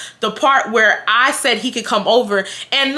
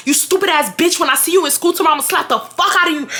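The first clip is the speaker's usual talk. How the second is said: raised, higher, fast threatening rant; mock rant; 6 semitones higher, faster than usual. Brian threatening her at school, a hint of raging. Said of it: "he was going off on me".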